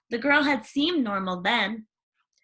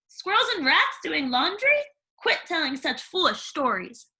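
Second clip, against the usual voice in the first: high, sugary stepmother; fake-sweet disapproving question; prim stepmother sniffing at dust; 5 semitones higher than usual. Stepmother voiced.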